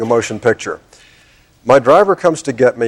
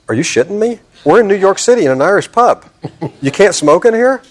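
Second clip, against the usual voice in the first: incredulous; 7 semitones higher than usual. Retold or imitated. Incredulous retort to bartender.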